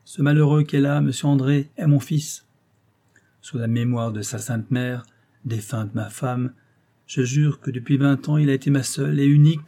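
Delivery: père furieux, plus fort, phrases brèves; voix rauque et brève. Acted. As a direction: accuse son fils avec une colère contenue. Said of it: "Il poursuivait d'une voix rauque et brève". (père outragé, plus fort et bref)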